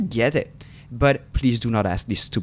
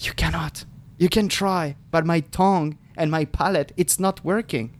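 put-on exasperated to kids; 6 semitones higher than usual. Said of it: "and those days I'm like".

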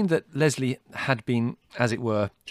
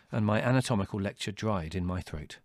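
ordinary delivery, nothing marked

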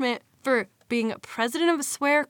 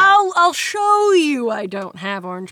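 high, loud flustered stammer to mom; panicked teen; 5 semitones higher, 7 dB louder than usual. Pretend. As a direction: scramble to stop mom searching.

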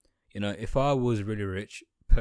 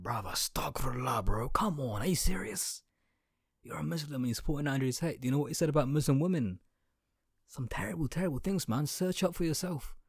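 scolding a Muslim fan; 4 semitones higher than usual. Retold or imitated. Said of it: "And like".

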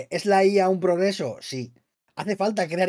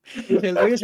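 laughing; slower than usual. Real, not acted. Still laughing after joke.

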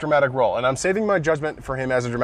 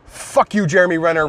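mock outburst; 4 semitones higher, 3 dB louder than usual. Mock outburst at a moving scene.

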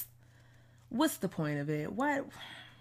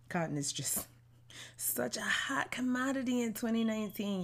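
breathy, hushed sarcasm, a little higher; sarcastic whisper; 5 semitones higher than usual. Real, not acted. Host whispers a sarcastic jab to listeners, dry. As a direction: whisper it like a sly joke on the side. Sarcastic aside about cotton and slavery.

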